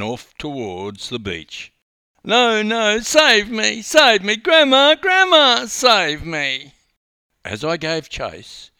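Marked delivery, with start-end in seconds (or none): 2.2-6.7 high, much louder panicked screaming; screaming child. A narrator's reading. Boy fleeing the coach screams for Grandma, high and loud. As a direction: shriek for rescue while fleeing. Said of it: "the screaming child".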